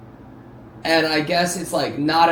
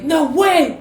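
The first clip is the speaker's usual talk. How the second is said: imitated disbelief; 10 semitones higher, 6 dB louder than usual. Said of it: "be like".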